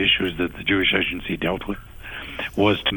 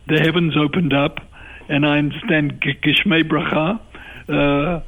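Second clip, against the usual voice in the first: excited; 7 semitones higher, 3 dB louder, slower than usual. Real, not acted. Laughing after the rabbi joke.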